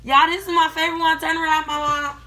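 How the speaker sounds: muffled behind cloth mask; speaking with mouth covered; through a face mask. Real, not acted. Seen 1: Speaker wears red cloth mask over mouth throughout the labelled words.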